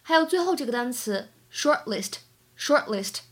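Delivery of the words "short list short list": "short list" with the T of "short" only mouthed; barely released T. Shown as a demonstration. Teacher shows incomplete plosion, "short list" with a held-back T. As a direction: stop the T of "short" before moving into "list". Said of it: "包含一个不完全失去爆破".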